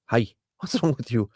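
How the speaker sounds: ordinary delivery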